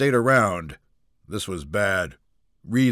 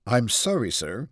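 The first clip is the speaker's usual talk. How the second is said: calm. Acted. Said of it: "the receptionist replied calmly".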